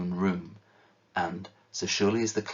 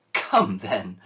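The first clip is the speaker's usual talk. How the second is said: gaily; 6 dB louder than usual. Acted. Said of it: "returned his nephew gaily".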